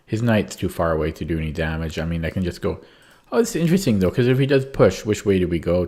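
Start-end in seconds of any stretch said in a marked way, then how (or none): 3.3-5.9 mock excited thinking. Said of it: "type of thing".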